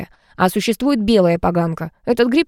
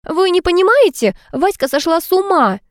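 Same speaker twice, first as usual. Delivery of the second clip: shrieking; 10 semitones higher than usual. A narrator's reading. Polina shrieks to Tanya that Vasya has gone mad. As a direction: shriek it out, near hysteria. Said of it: "перешла в режим визга Полина".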